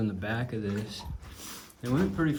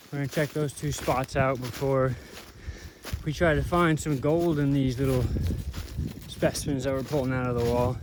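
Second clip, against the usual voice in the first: out of breath from walking uphill; shallow breathing. Real, not acted. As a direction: talk while catching breath. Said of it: "I'm out of breath again".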